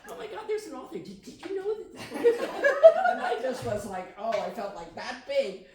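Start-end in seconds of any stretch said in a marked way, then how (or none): 0.1-2.7 excited announcing. Retold or imitated.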